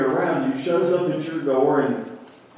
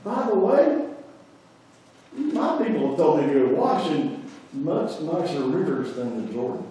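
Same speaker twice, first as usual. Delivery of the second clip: mock scorn; 2 semitones higher than usual. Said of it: "He's mad and angry".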